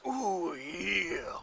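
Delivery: drawn-out holler in a put-on voice; mystery visitor voice. Game master as visitor banging on the door, showy call. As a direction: stretch it out as the stranger at the door. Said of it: "the voice suddenly goes".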